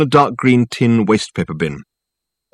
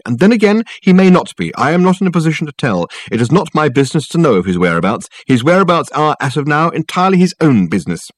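high, haughty secretary voice; lofty put-out young secretary; indignant secretary; 6 semitones higher, 3 dB louder than usual. A narrator's reading.

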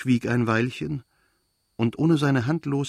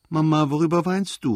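higher and louder, close to tears; a whiny call on the edge of crying; tearful cry; 6 semitones higher, 5 dB louder than usual. A narrator's reading. Boy calls out tearfully to his weeping mother. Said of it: "rief er mit weinerlicher Stimme".

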